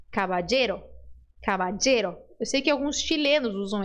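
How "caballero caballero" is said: caballero with a DJ sound, cabadjero. Shown as a demonstration. Teacher showing the Chilean DJ option. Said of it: "som de D J".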